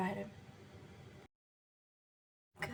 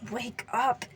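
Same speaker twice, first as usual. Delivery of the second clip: order. Acted. Katsuki ordering the limp boy to wake, firm command. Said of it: "Katsuki ordered".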